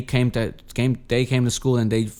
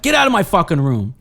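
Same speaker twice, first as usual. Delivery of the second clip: put-on teen outburst; 6 semitones higher, 6 dB louder than usual. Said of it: "And I'm like".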